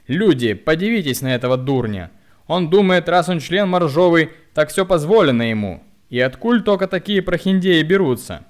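frantic scream. A narrator's reading. Woman screams to the crowd mocking the hunchback. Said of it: "истошно закричала".

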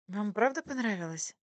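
smiling. A narrator's reading. Waitress asks whether they liked the soup, smiling. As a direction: ask hopefully with a smile. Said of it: "улыбнулась она".

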